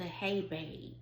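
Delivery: quiet, offhand hey babe; soft hey babe. Retold or imitated. Wife showing the minimal greeting she wanted, quiet. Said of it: "Or just a".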